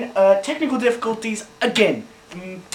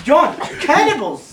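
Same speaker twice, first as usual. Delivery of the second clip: laughing, slow and louder; 8 semitones higher, 7 dB louder than usual. Real, not acted. Host laughs to John about cannibals, laughing loudly. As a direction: laugh the word out in disbelief.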